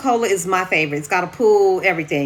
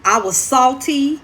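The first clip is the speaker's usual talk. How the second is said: salty; 4 semitones higher, 4 dB louder than usual. Real, not acted. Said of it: "I'm emotional".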